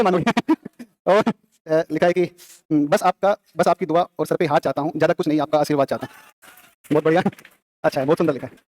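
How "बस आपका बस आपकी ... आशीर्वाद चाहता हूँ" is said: closing verse, easing downward at the end; poem recitation. Real, not acted. Teacher reads the poem's closing blessing, poem recitation. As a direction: read the last lines as a tribute.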